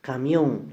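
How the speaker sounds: "Camión" leaning on "mión"; final-syllable stress. Shown as a demonstration. Teacher shows an aguda word, stress on MIÓN in "Camión". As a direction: put the force on the end of "Camión". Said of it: "la mayor fuerza de voz está en la última sílaba".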